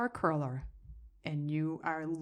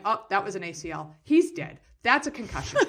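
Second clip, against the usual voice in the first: mock alarm; 5 dB louder than usual. Watching a kid wipe out on screen, retold alarm. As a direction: call out each injury in dismay. Acting out alarm at crash videos.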